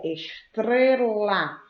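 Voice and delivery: "estrela" slowed, with TR clearly sounded; T-R cluster emphasized. Shown as a demonstration. Teacher giving another example of the cluster, emphatic demo. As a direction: stretch "estrela" to show off the T and R. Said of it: "o encontro consonantal T R".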